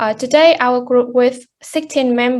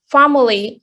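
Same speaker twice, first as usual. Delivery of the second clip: family with stress on FAM; stress on first syllable. Shown as a demonstration. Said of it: "which is the first syllable".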